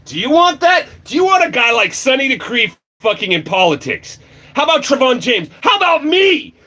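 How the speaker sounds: rising shouted challenge to the viewers; angry rant. Real, not acted. Ranting at livestream viewers, high angry shouting. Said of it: "This is my rant".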